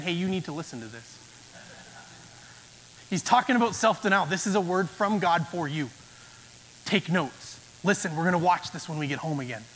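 hurried pew whisper, poking a spouse; nudging spouse. Pretend. Person nudging spouse in pew, quick soft aside. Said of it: "leaning over to the person next to you, your spouse perhaps, and saying".

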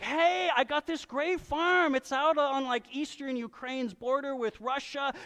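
high, eager salesman pitch; shady seller pitch. Retold or imitated. Preacher mimics a shady seller hawking land. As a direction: oversell a doomed farm like a huckster. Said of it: "going to Kyiv and being like".

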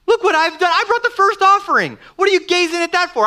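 indignant protest. Pretend. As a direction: demand credit as the firstborn, offended. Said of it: "Cain might say".

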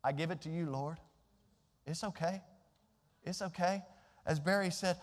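hushed, humble prayer to the Lord; soft kneeling prayer, letting go; quiet prayer. Retold or imitated. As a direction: pray it softly, surrendering. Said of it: "I have gotten on my knees and said".

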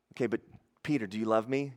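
soft, low, earnest question; gentle probing. Acted. Jesus asking Peter about his love, gently insistent. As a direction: press softly for a true answer.

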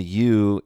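pointing out the word "you" while reading the verse; stress on you. Shown as a demonstration. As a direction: lean on "you" to show it is plural. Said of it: "is plural in both of those instances".

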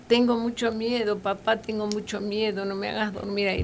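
put-on high, frightened child begging; a hint of a frightened little boy; pleading child. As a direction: beg your papa like a scared boy. Child begging father not to.

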